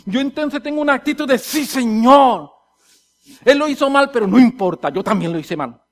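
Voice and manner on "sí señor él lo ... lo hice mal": loud surrender settling into admission; humble acceptance. Acted. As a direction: concede your own fault to God. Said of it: "cuando yo soy manso y humilde".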